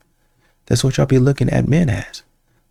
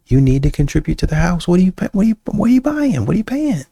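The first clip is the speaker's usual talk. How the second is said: rising demand; 8 semitones higher than usual. Real, not acted.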